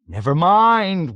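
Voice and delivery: high, slow wail. A narrator's reading. Exhausted pilot wails at navigator. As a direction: wail it in defeat. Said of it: "wailed Yossarian".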